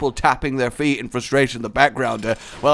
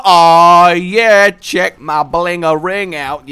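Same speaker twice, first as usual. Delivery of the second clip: mock street swagger; 7 dB louder, much slower than usual. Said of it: "I'm so, I am just so Avenue".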